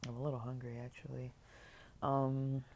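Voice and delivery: usual speaking voice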